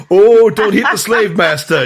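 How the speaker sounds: high, hammed-up American servant; put-on American accent. Butler pleading with Renato, mock American accent. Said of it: "tries to put on an American accent".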